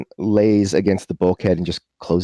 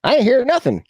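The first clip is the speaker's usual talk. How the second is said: oblivious pilot. Acted. Goober dismisses passenger's worry about noises.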